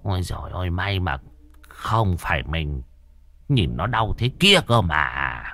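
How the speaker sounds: put-on a softly murmured old shaman grateful it wasn't him; old medium's muttered relief.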